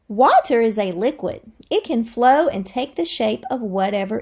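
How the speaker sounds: lively read-aloud to the class; expressive classroom read-aloud; reading to children. Acted. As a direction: read it like a storybook for kids. Teacher reads book aloud.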